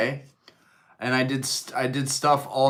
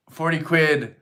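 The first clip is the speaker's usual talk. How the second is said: put-on British accent; 4 semitones higher than usual. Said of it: "best British accent".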